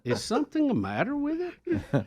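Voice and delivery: lightly voiced elderly mother, puzzled; a hint of a fussy old mom asking her son; mom impersonation. Son retells his mother calling about her missing channel, mild mom voice. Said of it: "he did the impersonation".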